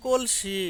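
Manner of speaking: slow কলসি in Sirajganj dialect; Sirajganj dialect word. Shown as a demonstration. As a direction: say কলসি slowly and clearly, Sirajganj style. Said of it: "আমরা সিরাজগঞ্জের মানুষ".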